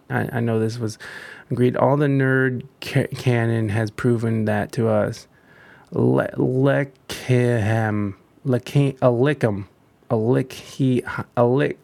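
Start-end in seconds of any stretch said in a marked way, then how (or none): 6.4-8.1 Lechaim drawn out slowly, sounding it out; unsure pronunciation. Shown as a demonstration. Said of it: "I don't know how to say".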